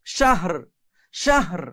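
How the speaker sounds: "শাহর" with breathy h, then an audible final r; final R pronounced. Shown as a demonstration. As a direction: close "শাহর" on a sounded r. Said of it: "এভাবে উচ্চারণ করতে হবে".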